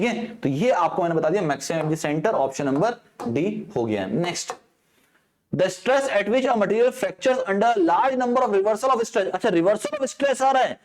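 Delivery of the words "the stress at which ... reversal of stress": slow, deliberate exam reading; question read-out. Acted. Teacher reading an exam question to students, slow and deliberate. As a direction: read each word of the question out slowly.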